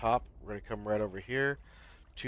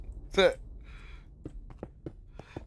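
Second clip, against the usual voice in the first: high burst trailing into voiceless chuckles; long, wheezing real laugh; breathy laugh; 9 semitones higher than usual. Real, not acted. Laughing at own past anger.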